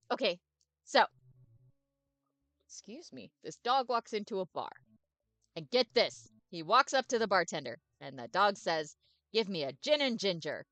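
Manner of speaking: loud, bouncy, overexcited puppy; eager dog voice. Acted. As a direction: bark every word out like a happy dog. The speaker tells his joke.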